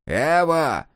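high exclamation of wonder; amazed. A narrator's reading. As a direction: marvel at his naivety. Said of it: "подивился Ухмыл его наивности".

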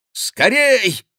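high, loud urging; impatient cry. A narrator's reading. The duchess urging the king to sign at once, impatient. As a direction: hurry him up. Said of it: "нетерпеливо вскричали".

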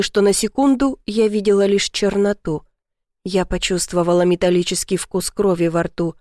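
plain reading voice

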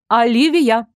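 stern calling of a name, mildly firm. A narrator's reading. Mother sternly confronts her daughter, mildly stern. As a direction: call her to account. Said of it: "строго сказала мать".

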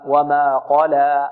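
slow وما قلى ending on a full open aa; open alif. Shown as a demonstration. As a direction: recite وما قلى with no tilt toward e and no final hamza. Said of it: "بدون تقليل".

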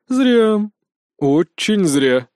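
a regretful sigh, the second word drawn out slowly; sighed Зря, Очень зря, slowly. A narrator's reading. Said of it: "вздохнул скандинавский божок".

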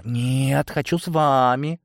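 put-on high, stubborn child's whine; childish whining. A narrator's reading. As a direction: insist like a kid left out. Childish woman whining to join. (капризно, высоким голосом)

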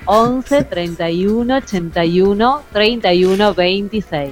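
phone number in separate, spaced-out groups. Shown as a demonstration. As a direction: dictate it carefully, pausing after each group. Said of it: "le voy a decir más, eh, lento".

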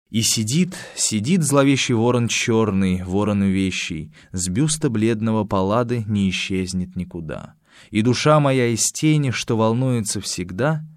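solemn recited verse; poem recitation. Acted. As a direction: intone it like a dark poem. Teacher reciting Balmont translation.

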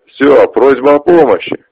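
cruel cackling laughter; mocking laugh. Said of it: "и засмеялся".

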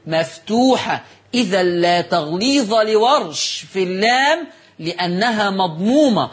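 slow, measured Classical Arabic read-aloud; formal commentary reading. Real, not acted. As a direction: read the note out deliberately, stretching the long vowels. Reads the written commentary aloud. (قراءة متأنية بالفصحى)

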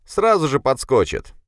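high, loud shout. A narrator's reading. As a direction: yell it out eagerly. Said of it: "крикнул ему щуплый".

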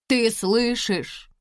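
excited. A narrator's reading. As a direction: repeat it close by, beaming. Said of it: "повторила". (взволнованно, ближе и тише)

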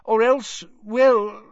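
high, hesitant stammering start; embarrassed. A narrator's reading. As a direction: falter awkwardly, pitched high. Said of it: "Fudge sounded embarrassed".

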